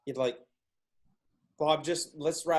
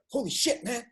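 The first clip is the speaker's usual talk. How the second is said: mock panic; 9 semitones higher than usual. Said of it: "the guy is like".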